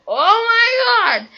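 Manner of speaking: high shrieking panic, slowed out; panicked scream. Retold or imitated. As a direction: shriek it like you just hit your head on the wall. Retold panic after hitting wall.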